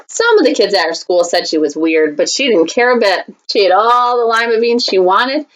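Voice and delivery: put-on lively read-aloud for kids; story reading. Teacher reading a picture book to students, storytime voice.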